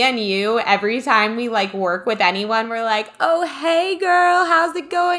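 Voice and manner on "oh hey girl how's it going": high sing-song phone greeting, much higher. Retold or imitated. Host showing her girly phone voice, high and sing-song. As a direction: chirp it like a bubbly phone hello. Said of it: "It's like my phone voice".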